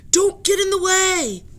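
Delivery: high, very loud command; stern shout. Acted. Professor shouts after the running children, very loud. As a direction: shout them to a halt. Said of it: "professor shouted".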